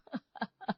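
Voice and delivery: a soft amused chuckle; brief laugh at her worry; short laugh. Acted. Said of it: "तुम हंस रहे हो".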